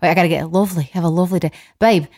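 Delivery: Scottish attempt slipping into Australian; amateur Scottish impression gone Australian; botched Scottish accent. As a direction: try your boyfriend's Scottish accent, badly. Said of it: "that was Australian".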